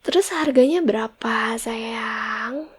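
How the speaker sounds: unvoiced whisper ending in a rise. Wife asking husband the price in a tender whisper. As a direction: whisper the question sweetly.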